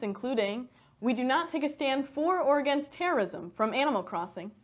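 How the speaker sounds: satirical news anchor delivery; scripted newsdesk read; mock news read. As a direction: read the joke headline like an anchor.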